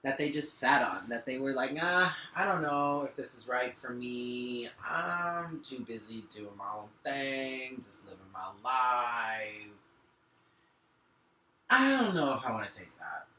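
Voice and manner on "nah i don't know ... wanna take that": lightly voiced careless shrug; nonchalant. Imitating the masculine refusing love, nonchalant. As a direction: toss it off like you don't care. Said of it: "I said it like that for a reason".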